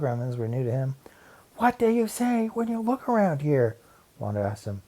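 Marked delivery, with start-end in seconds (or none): 1.6-3.8 high, odd creature voice; gremlin voice. Acted. Wanda as a gremlin questions Larry, eerie. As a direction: play a spooky log gremlin.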